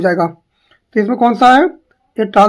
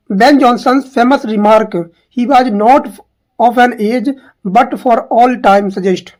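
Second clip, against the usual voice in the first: slow question read-out; much slower than usual. Shown as a demonstration. Reading quoted remark slowly.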